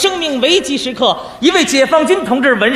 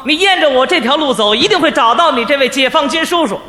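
patient counsel; 3 semitones lower than usual. Acted. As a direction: coax the boy along kindly. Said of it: "因势利导". (耐心开导的语气)

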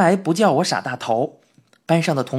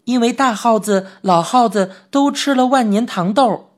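a little higher and louder, keen; eager mouse boy; 5 semitones higher, 3 dB louder than usual. Acted. Mouse boy eagerly tells his friend about the mouse city, a touch higher. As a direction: rush in eagerly to explain. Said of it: "陈小铁兴冲冲地说".

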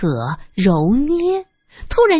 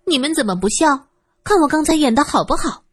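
talking through giggles, higher; breathless laughter; 7 semitones higher than usual. Acted. 尹玉珍 brags about her acting, laughing breathlessly. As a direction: laugh so hard you can barely speak. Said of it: "尹玉珍笑得喘不上气儿".

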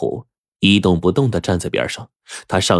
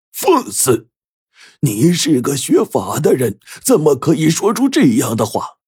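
much higher, louder stern outburst; angry rebuke; 8 semitones higher, 3 dB louder than usual. Acted. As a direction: bark the master's rebuke at him. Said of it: "油灯法师瞪着扇子喝道".

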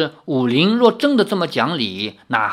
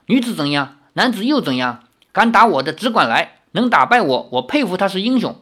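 proud challenge; 4 semitones higher than usual. Acted. Girl challenges all comers.

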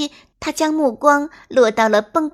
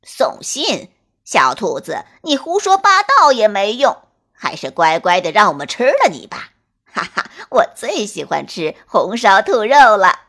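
loud menacing wolf with gloating laugh; hungry big bad wolf taunting prey; greedy wolf voice; 6 dB louder than usual. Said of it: "一只黑狼咧开大嘴说".

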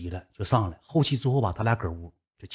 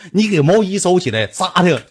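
annoyed; 6 semitones higher, 7 dB louder than usual. Retold or imitated. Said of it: "这女的说句话：".

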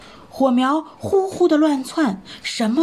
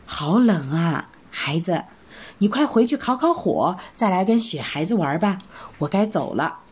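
put-on shiver and send the child inside; lightly voiced mother rabbit in the cold; 5 semitones lower than usual.

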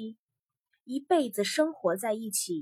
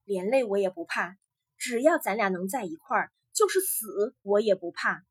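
firm; 4 dB louder than usual. Acted. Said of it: "于哥坚定地说".

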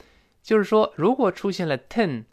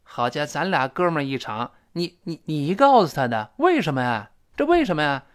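stammer, then demand to know why; acted, mildly indignant outburst; agitated reproach. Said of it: "第一个人急了".

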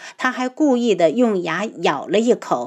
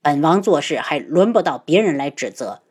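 lower, annoyed prince voice; irritated; 4 semitones lower than usual. Acted. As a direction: rebuff her with mild anger. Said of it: "有些气愤".

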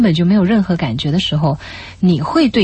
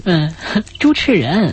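laughing; slower than usual. Real, not acted. Laughing echo of partner's joke.

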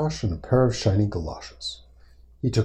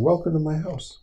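character's greeting; 7 semitones higher than usual. Acted. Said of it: "He's saying".

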